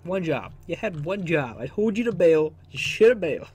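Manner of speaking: loud, frustrated scolding; exasperated yelling. Real, not acted. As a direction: yell at the screw-up. Blaming teammate after crash.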